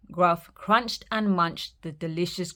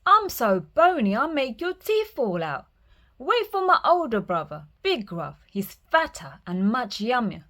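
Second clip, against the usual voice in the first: higher goat pleading; higher middle goat talking the troll out of it; 5 semitones higher, 4 dB louder than usual. Acted.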